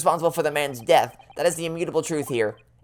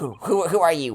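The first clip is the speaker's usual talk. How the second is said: odd, geeky, nerdy character voice. Playing a game, voice the professor asking who you are, in a weird nerdy voice. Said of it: "a weird, nerdy voice".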